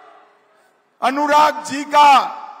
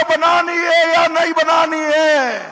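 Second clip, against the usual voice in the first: high, shouted question repeated louder; louder rally shout; 6 semitones higher, 5 dB louder than usual. Shown as a demonstration. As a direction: push the crowd to shout back. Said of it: "जोर से बोलो".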